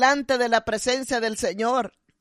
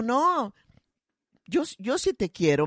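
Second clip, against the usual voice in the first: changed gentle voice. Retold or imitated. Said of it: "con una voz completamente diferente".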